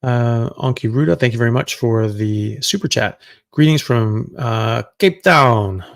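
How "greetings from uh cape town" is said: a slow, hammed-up South African accent on "Cape Town"; badly faked South African accent, drawn out; terrible South African accent. Reading a viewer's greeting in a mock South African accent. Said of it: "That was a terrible accent".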